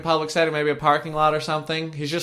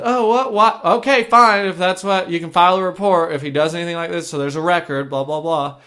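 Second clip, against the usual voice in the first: higher, snippy dispatcher brushing him off; mock an annoyed, curt operator, pitch up; snippy attitude; 4 semitones higher, 3 dB louder than usual. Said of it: "She had an attitude".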